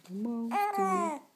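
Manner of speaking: laughing monster voice. Pretend.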